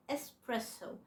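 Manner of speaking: "إسبريسو" as es-PRESS-o, no k; slow demonstration of "إسبريسو" with a clean s; correct pronunciation. Shown as a demonstration. Teacher correcting learners, "إسبريسو" slowly with no X. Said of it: "ولكن هي النطق الصح".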